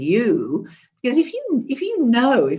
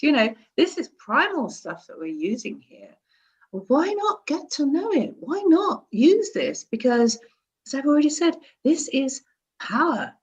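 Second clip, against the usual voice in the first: ordinary talk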